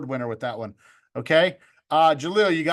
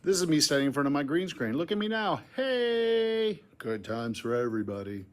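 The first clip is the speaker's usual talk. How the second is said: sped-up playback; 3 semitones lower, 4 dB quieter than usual. Shown as a demonstration. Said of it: "watch how fast it goes".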